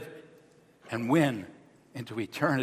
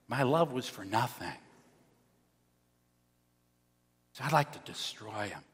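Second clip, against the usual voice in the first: hushed heartbroken God; 3 semitones lower, 6 dB quieter than usual. Acted. God voiced as hurt parent.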